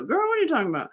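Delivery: put-on high sassy call-out, girl; playful sister calling you out; sassy Black woman voice. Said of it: "when you hear me go".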